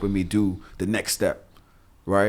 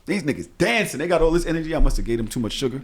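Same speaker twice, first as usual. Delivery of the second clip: put-on higher, amused disbelief at the kids' energy; 4 semitones higher, faster than usual. Dad marvelling at his hyper kids, amused. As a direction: marvel at how wired they are. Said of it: "I'm like".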